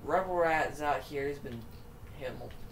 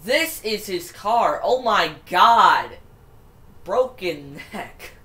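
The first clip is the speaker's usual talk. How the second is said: shocked excitement; 3 semitones higher, 12 dB louder, slower than usual. Real, not acted. Shocked at crash replay.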